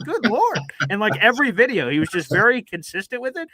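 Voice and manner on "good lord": much higher mock exasperation; higher, half-amused Good Lord; exasperated. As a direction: roll your eyes out loud. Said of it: "I'm like".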